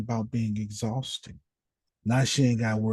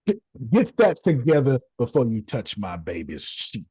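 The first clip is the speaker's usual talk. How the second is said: scolding; 5 dB louder than usual. Retold or imitated. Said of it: "they don't like when I talk like that".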